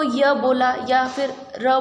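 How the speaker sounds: slow, drawn-out य and र as sound samples; teacher sounding out य and र slowly; sounding out letters. Shown as a demonstration. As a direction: hold each letter so the class hears it. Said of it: "अब आप इसको बोल करके देखिए".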